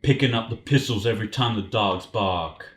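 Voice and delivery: lyrics read in a rapper's cadence. Shown as a demonstration. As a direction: read it rhythmically, in your own voice. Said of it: "I'll do it in his cadence".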